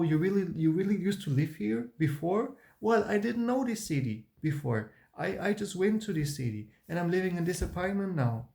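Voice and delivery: mock overeager high-pitched chatter; cringey sugary high voice, hammed up; fake high voice. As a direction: imitate your younger self chirping up high to please. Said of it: "I was talking with this high voice".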